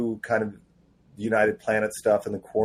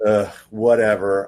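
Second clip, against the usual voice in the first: slow, louder grudging brush-off; mad, sulky; 6 dB louder than usual. Retold or imitated. Writer retelling his reply to the offer, mock sulky. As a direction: retell it as a drawn-out sulk. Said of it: "I was mad".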